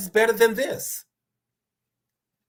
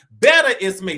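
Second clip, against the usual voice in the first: "Better is me" belted out much louder; rousing declaration; 8 dB louder than usual. Acted. Preacher proclaiming to the congregation, rousing and loud. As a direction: shout "Better" out to the room.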